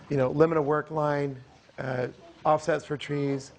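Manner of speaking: slightly hoarse, voice nearly gone; talking through a lost voice. Real, not acted. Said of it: "I apologize if I lost my voice".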